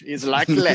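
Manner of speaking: "likely" as "lack-leh"; playful mock-Irish pronunciation. Shown as a demonstration. Host jokes the player sounds Irish, "likely" as "lack-leh". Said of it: "Very Irish".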